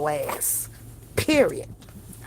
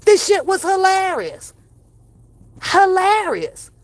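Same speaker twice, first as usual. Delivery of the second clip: mocking amusement; 8 semitones higher, 3 dB louder than usual. Real, not acted.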